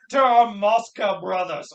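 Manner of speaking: slow mock Russian accent. Co-host retelling a drunken toast, slow mock Russian. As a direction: imitate a bad Russian toast, slowly. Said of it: "did a Russian accent".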